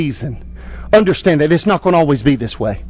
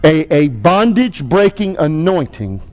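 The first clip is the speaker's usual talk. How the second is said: pastor's closing prayer. Acted. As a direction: lead the congregation in prayer.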